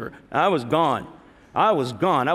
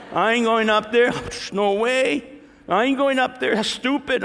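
higher-pitched, comic protest; mock defiant refusal; 5 semitones higher than usual. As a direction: refuse stubbornly, playing it for laughs. Acted refusal of the altar call.

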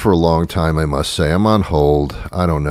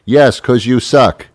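loud, slow jeering answer; taunting; 5 semitones higher, 4 dB louder, slower than usual. Pretend. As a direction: lean on every word to needle. Insulting the robot.

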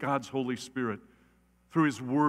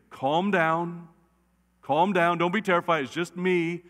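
lightly voiced Jesus; 3 semitones higher, 3 dB louder than usual. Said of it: "I think he should say".

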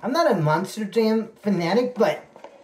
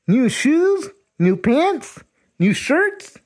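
excited listing; 5 semitones higher, slower than usual. Real, not acted. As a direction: count off the gifts with growing thrill.

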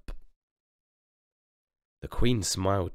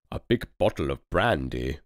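tipsy duke; 4 dB louder than usual. Acted. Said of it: "hiccuped the red-nosed duke".

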